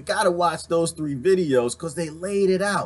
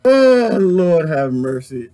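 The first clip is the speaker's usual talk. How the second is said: laughing exclamation; 9 dB louder, much slower than usual. Real, not acted. Recovering from laughing fit.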